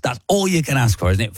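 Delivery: ordinary talk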